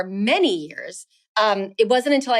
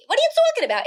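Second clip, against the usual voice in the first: put-on her Jersey accent pitched much higher; Jersey accent coming back; much faster than usual. Around her parents, a sudden Jersey accent. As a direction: let the Jersey accent burst out. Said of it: "If I'm around my parents, immediately".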